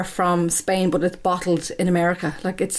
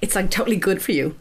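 mock American accent. Mocking Cameron Diaz's wine video in an American accent. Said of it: "Are you gonna do this whole episode in an American accent?".

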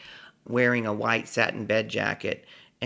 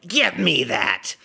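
put-on slow, higher-pitched drunken demand; mock yell; 6 semitones higher, 4 dB louder, slower than usual. Drunk man grabbing the number from his friend, bold yell. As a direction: yell it with liquor courage, drawing out each word. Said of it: "just yelled".

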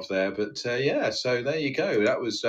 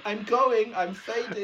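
fading away; 8 semitones higher, slower than usual. Pretend. Spies fading out on radio.

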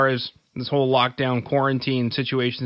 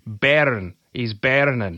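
mock Scottish accent; much slower than usual. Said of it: "I can do, like".

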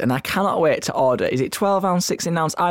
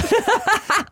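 high-pitched laugh; real high giggling fit; laughter. Real, not acted. Laughing at co-host.

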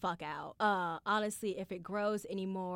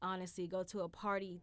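much softer reasoning to herself; quiet self-talk; 8 dB quieter than usual. Retold or imitated. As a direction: talk yourself down gently. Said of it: "I'm not like".

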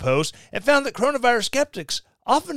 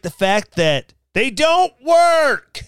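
higher, louder, slow sarcastic shout; shouted retort; 7 semitones higher, 6 dB louder, slower than usual. Real, not acted. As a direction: bark it back at the article.

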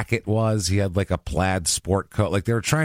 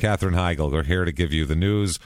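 lightly voiced newscaster, only a touch of an anchor read; a hint of a TV anchor opening the broadcast; mock Midwestern news anchor; 3 semitones lower than usual. Mocking Heigl's hair as a local news anchor, lightly done newscaster voice. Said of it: "She looks like a Midwestern news anchor".

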